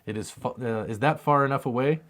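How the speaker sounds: ordinary delivery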